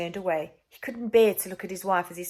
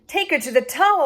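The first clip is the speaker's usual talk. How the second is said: higher, louder command; stern order; 9 semitones higher, 10 dB louder than usual. Acted. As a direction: sentence her with authority. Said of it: "ordered the king".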